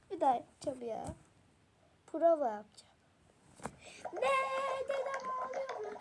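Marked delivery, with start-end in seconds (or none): 4.1-6.0 high-pitched startled question, then settling; acted alarm. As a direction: play a mildly shocked reaction. Rehearsing the same reaction line.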